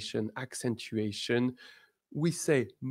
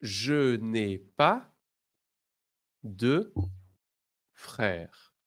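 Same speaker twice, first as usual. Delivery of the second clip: slow, word by word French model; slow model phrase; much slower than usual. Shown as a demonstration. Teacher modelling negation for the class, slow and separated. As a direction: say it slowly for students to repeat. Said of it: "Now repeat after me".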